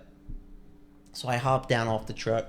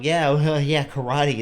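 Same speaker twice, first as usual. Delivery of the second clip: jeering with a chuckle; laughing along; 3 semitones higher, 6 dB louder than usual. Retold or imitated. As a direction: laugh along as you mock it. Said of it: "I was laughing along".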